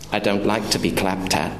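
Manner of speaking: low, restrained objection; subdued waiter. Acted. Waiter objects to his rude customer, restrained. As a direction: object with quiet dignity. Offended waiter answers father.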